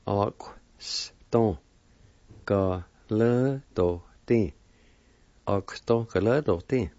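the syllables run together into one word; syllables joined. Shown as a demonstration. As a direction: link the syllables smoothly. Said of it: "And together".

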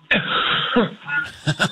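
sudden rough coughing in the throat; harsh throat-clearing cough; real cough. Real, not acted. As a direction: cough to clear something stuck. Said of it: "I thought you were acting".

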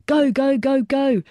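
urgent call. A narrator's reading. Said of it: "another said".

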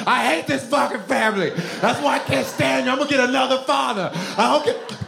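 high-pitched mock tantrum scream; retold child's scream. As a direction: wail in protest like a beaten kid. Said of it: "I would scream".

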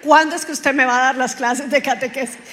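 loud imitated holler; retold street shout. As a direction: demand it loudly, quoting someone yelling. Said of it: "me gritaran en la calle". (reclamo imitado en voz alta)

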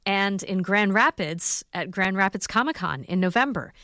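measured, scripted public-radio host delivery; radio outro read. Acted. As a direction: read out the event details neatly.

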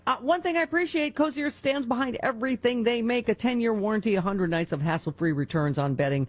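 enthusiastic personal endorsement read; live ad read. Acted. Radio host praising bamboo sheets to listeners, upbeat ad read. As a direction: sell it like a favorite product.

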